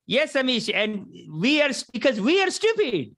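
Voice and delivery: high, put-on Indian accent; lightly hammed Indian accent; Indian uncle impression. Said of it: "someone from India will be like".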